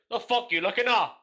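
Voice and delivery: high, loud aggressive snap. Shown as a demonstration. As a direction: bark it like a street threat. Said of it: "it's very aggressive".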